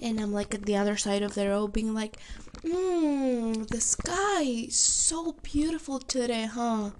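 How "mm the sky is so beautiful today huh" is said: acting absorbed in the sky, higher; feigned nonchalance. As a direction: pretend idle wonder to hide unease. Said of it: "just looking around, trying not to think".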